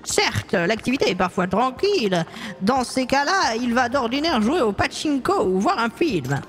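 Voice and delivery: lightly voiced worried old woman; a hint of a fretful grandmother; old lady client. (voix de vieille dame inquiète, légère)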